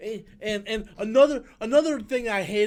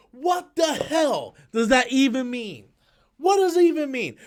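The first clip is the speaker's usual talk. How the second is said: incredulous yell; 4 semitones higher, 4 dB louder than usual. Retold or imitated. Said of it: "I was like".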